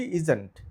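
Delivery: teacher models ইজেন্ট smoothly with no break between is and not; contracted pronunciation. Shown as a demonstration. Teacher showing students how to say isn't, run together. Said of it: "তখন এটাকে বলি কি".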